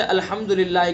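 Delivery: second الحمدللہ with du and hi drawn out long; added-letter mistake. Shown as a demonstration. Teacher illustrating an added letter, overstretched vowels in الحمدللہ. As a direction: stretch الحمدللہ into alhamdoo-lillaahee. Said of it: "کسی حرف کو بڑھا دینا".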